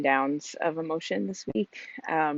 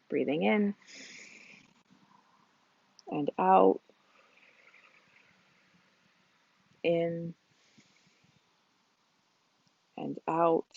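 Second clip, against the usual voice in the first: calm, unhurried mindfulness instruction; guided movement. Real, not acted. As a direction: guide them gently through breath and stretch, leaving space. Leads mindful movement and breathing.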